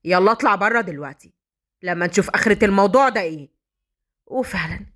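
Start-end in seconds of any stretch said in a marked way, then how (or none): 0.0-3.5 low, fast angry dismissal; angry order. Acted. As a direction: throw the client out in a temper. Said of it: "فهد اتعصب".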